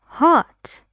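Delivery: "Hot" sharply up; rising tune. Shown as a demonstration. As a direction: lift "Hot" like a suggestion.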